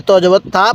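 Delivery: ত জবর তা ending on an open "ta"; the mistaken spelling, last syllable an open "a"; wrong thin "ta". Shown as a demonstration. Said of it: "তাহলে পড়াটা সহি শুদ্ধ হবে না".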